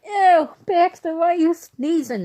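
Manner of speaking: high, slow mock disgusted mom voice; mom grossed out. Imitating her mom squealing at the sneezing dog.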